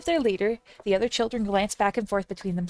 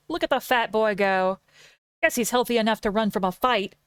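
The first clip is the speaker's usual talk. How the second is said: mocking old woman; 5 dB louder than usual. Old woman mocking fleeing boy.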